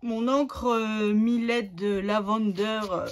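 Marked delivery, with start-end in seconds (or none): 1.1-2.8 French-accented English. Real, not acted. Crafter naming her ink to viewers, French-accented English. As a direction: say the English product name with a thick French accent. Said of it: "vous entendez mon super accent anglais".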